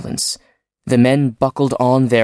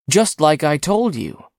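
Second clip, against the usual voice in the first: excited; 4 semitones higher than usual. Acted. Engineer excited after hitting dragon.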